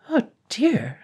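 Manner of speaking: a dragon at his wits' end; distressed dragon. A narrator's reading. The weary dragon frets to himself, high and fretful. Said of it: "This is awful".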